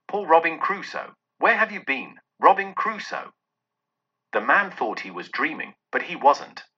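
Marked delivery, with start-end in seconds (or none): 0.1-3.3 a lightly voiced parrot, higher, calling "Robin Crusoe"; perch-bird squawk on "Poor Robin Crusoe", pitched up. Scrooge mimics the parrot from his storybook, lightly voiced and higher. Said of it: "It was the parrot, you know".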